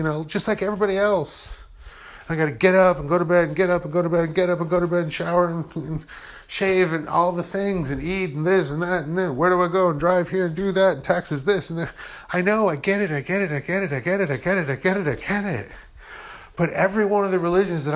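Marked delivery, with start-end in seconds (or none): 2.3-11.9 daily chores run together without pauses; rushed rattling list. Shown as a demonstration. 12.3-15.7 slightly raised, singsong string of repeats; impatient repetition. Acted. Waves off the daily grind.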